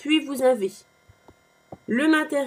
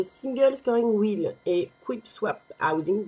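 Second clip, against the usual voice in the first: English terms with a French accent; real French accent on English words. Real, not acted. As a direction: say the English product names as a French speaker.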